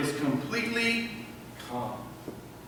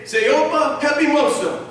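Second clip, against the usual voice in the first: loud, raised-pitch divine command; commanding God; 6 semitones higher, 6 dB louder than usual. Acted. God standing up to still a life's storm, commanding. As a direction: order it out with full authority. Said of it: "God can stand up and say".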